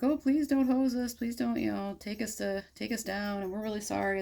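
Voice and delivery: high, mock-desperate begging; pleading sailors. Sailors praying in the storm, high mock begging. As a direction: beg the gods like a sailor in a storm. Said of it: "They're like".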